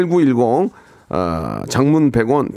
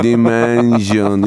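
very slow, low, drawn-out robot voice; mock AI pronunciation, low and dragged; AI voice impression; 4 semitones lower, much slower than usual. Shown as a demonstration. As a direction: stretch each syllable like a machine. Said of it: "이렇게 하셔야죠".

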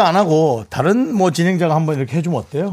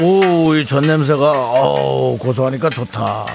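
lazy husband role; slower than usual. Acted.

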